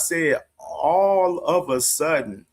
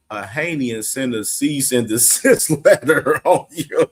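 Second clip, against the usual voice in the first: laughing through reading; 3 dB louder than usual. Real, not acted. Host reading tweet, laughing.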